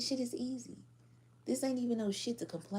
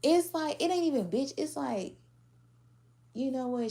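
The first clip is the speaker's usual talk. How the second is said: high, loud building exclamation; excited high shout; loud excited aside; 7 semitones higher, 7 dB louder than usual. Real, not acted. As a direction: pump it up loudly. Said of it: "building to a punchline".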